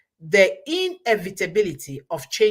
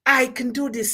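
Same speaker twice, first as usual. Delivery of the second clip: higher-pitched, confident self-affirmation; can-do spirit; 4 semitones higher than usual. Acted. Speaker showing the right spirit for a task, confident.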